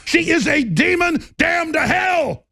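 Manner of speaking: enraged host condemning her, slow and loud; furious outburst. Real, not acted. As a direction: spit out the condemnation.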